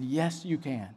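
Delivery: soft, low retold assurance; hushed, tender reply; gentle reassurance. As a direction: reassure him quietly. Retold tender reassurance to tearful man.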